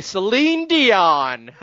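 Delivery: a hint of a Southern drawl on "Celine Dion"; Moran's Southern voice. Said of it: "as Moran would say".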